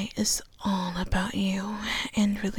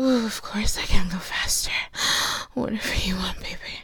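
sweet nothings; 3 semitones lower than usual. Acted. Lover murmuring to partner.

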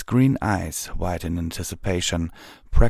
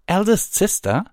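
very high, loud query; astonished question; 14 semitones higher, 5 dB louder than usual. A narrator's reading. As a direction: echo the words in shock. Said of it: "Twilight asked".

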